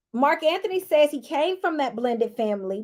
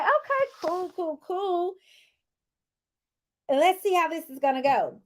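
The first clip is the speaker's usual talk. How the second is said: "Okay" up high, then "cool, cool" dropping soft; breathy sing-song fake calm; pitched-up, hushed sarcastic okay; high soft mock reaction; 4 semitones higher, 4 dB quieter than usual.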